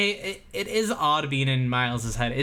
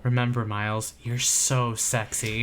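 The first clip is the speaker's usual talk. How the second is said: mock self-pep-talk; 4 semitones lower than usual. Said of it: "He's like".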